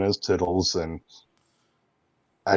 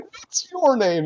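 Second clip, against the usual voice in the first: nerdy news guy voice; slower than usual. Acted. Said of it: "I'm like".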